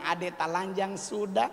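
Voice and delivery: lightly voiced Papuan man, relaxed; a hint of an easygoing Papuan elder; Papuan accent. Papuan elder explains the koteka to the comic, light Papuan accent. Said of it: "Si Pace bilang".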